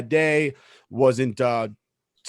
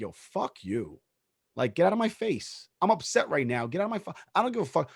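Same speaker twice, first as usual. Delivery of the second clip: inner angry thought; 3 semitones higher, 5 dB quieter than usual. Retold or imitated. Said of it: "in my head, I would have been like".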